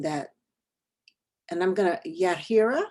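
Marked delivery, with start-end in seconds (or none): 2.1-2.8 "Yahira" with an H sound and English R, rising at the end; mispronounced name. Shown as a demonstration. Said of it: "I know I pronounced that wrong".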